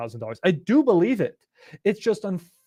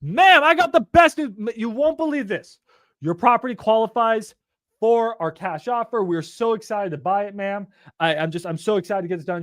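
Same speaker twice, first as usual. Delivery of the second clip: excited; 3 semitones higher than usual. Shown as a demonstration. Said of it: "No, you say".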